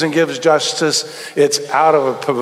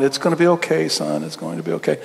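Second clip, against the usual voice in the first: awkward comforting dad; 4 dB quieter than usual. Retold or imitated. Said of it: "the dad's kinda uncomfortably going".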